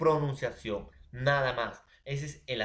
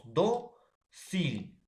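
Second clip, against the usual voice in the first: "do, sil" split in two, weight on DO; teacher's syllable demo of "do, sil"; stress on penultimate syllable; 3 semitones higher than usual. Shown as a demonstration. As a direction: punch "do", pause, then a lighter "sil". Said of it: "penúltima".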